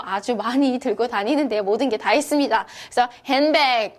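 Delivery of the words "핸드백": "핸드백" said as hen-bag; dropped D. Shown as a demonstration. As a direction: leave out the D in "핸드백". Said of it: "소리 크게 내어주세요". ("핸드백"에서 드를 생략해 헨백)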